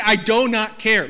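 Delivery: slow, loud, deliberate dealer line; mock car-ad pitch. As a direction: ham up the awkward dealer. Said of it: "he would literally say".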